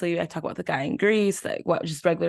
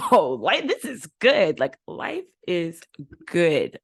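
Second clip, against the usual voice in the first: delighted; 4 dB louder, slower than usual. Retold or imitated. Savoring the treatment she got.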